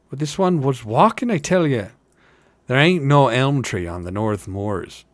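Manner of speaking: rustic hobbit vouching for a tale; lilting village gossip with punched emphasis; insistent working hobbit. Acted. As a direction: insist like a country fellow.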